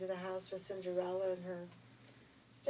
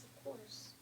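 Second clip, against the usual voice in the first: shy; 4 semitones higher, 8 dB quieter than usual. Acted. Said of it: "she just kind of was very shy".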